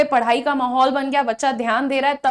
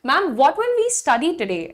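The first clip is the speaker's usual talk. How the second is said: polite, slow question; polite ask; 2 semitones higher, much slower than usual. Shown as a demonstration. Student politely asking teacher today's topic. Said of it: "politely भी पूछ सकते हैं".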